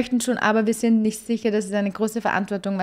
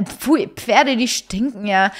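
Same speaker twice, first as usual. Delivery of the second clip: mocking brother; 3 dB louder, much slower than usual. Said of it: "So ist Dean".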